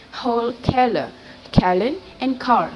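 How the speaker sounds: "car" attempted as "whole keller, Kellen", in separate tries; imitated mispronunciation. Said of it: "the man cannot say the last word".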